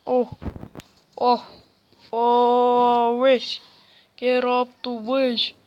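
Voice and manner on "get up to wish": loud callout at the screen; loud shout. Real, not acted. Shouting the phrase at the game, loud. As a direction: shout it out, punching get.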